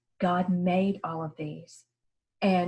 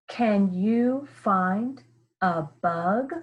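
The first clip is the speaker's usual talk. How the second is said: question rise; much slower than usual. Shown as a demonstration. Teacher reading a question to pupils, rising tune. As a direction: voice going up at the end. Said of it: "Listen how my voice goes up".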